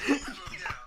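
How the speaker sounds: high, loud mom voice; hammed-up mother impression with a laugh; Jenna. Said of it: "Do you wanna do Jenna's voice as well?".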